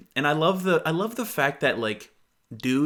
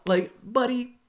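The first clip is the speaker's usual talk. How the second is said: higher, drawn-out disbelief; incredulous buddy; 9 semitones higher, slower than usual. Real, not acted. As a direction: talk down to him in disbelief. Incredulous at guy.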